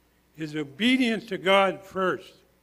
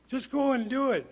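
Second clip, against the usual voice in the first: higher-pitched urging; urgent exhortation; 5 semitones higher than usual. Acted. Preacher voicing God telling Joshua to act, urging. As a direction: press it as an eager command.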